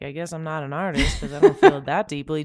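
mock dejected line broken by laughter; rueful laughing aside; laughing self-mockery. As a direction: laugh while doing a defeated little quote. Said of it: "I was like".

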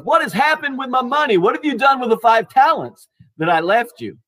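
lightly acted master demanding a report; master's questioning. Master checking on his first servant, questioning.

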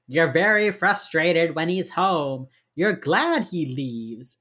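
slow, deliberate profiler calm; slow knowing coax. Retold or imitated. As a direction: lay each word down gently, like you already know. Gideon coaxing wife through door.

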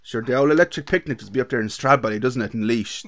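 hammed-up Laois local chatting about Stradbally; mock Laois accent with a touch of slagging. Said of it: "give us an outro in your best Laois accent".

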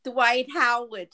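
Brooklyn vowels, slow and drawn; Brooklyn accent. Real, not acted. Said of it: "can you say Dwight Howard".

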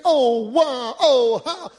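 a hammed-up moan with a laugh; mock moaning. Mourning friends imitated, a mild mock moan. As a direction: moan it out, half joking. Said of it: "they'll be saying".

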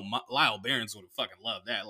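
usual speaking voice

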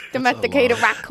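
imitated Vietnamese-accented raccoon; mock Vietnamese accent. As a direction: copy a put-on Vietnamese accent. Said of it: "I feel racist".

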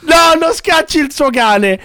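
high urgent pleading; urgent plea. Real, not acted. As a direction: urgently beg him. Begging not to chase dog.

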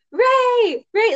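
high-pitched imitation of calling out a name; mock yell. Podcaster imitating Finn forever yelling Rey's name, mock yell. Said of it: "he yells her name".

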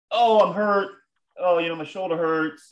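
hammed-up complaint of pain; feigned hurt. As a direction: play up a fake injury. Imagined victim feigning injury.

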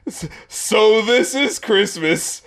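slow, drawn-out and unimpressed; a mock bored sigh of a line; an unimpressed take on a singer. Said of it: "the way he says it is just like".

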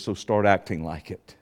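low, soft, restrained voice; quiet instruction. Retold or imitated. Preacher retelling what Yahweh told him, quiet and low. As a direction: say it low and quietly matter-of-fact. God's words retold, first quiet take.

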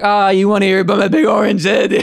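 high, loud eager barfly; loud excited shout. Acted. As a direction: shout it out, thrilled to tell. Bar guy voiced in joke.

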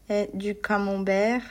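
du camembert with nasal French ending, no final t. Shown as a demonstration. Teacher modelling French camembert for Polish learners. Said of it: "uwaga, camembert, a nie camembert".

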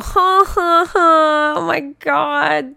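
high, loud laughing fit; laughing hard. Real, not acted. Reacting to a goat headline, laughing hard. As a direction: burst out laughing at the joke.

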